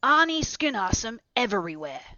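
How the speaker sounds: loud, high exclamation; shouting. A narrator's reading. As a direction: cry out the name in triumph. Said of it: "shouted my uncle".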